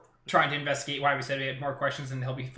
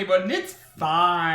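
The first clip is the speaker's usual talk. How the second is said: laughing; 5 dB louder than usual. Real, not acted. Laughing reassurance.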